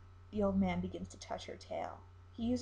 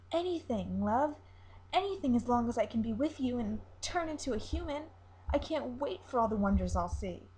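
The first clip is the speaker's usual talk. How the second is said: put-on higher, eager young siren voice; 3 semitones higher, 3 dB louder than usual. Siren pledging herself to the captain, high and eager. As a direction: promise anything, lifted and keen.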